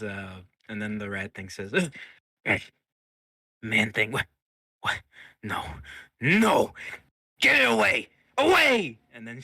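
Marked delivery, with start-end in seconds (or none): 1.7-9.0 high, loud panicked bursts; screaming in terror. Acted. Captive rat recoiling from the symbol, screaming in terror. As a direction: shriek for it to be taken away. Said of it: "he's still screaming in terror".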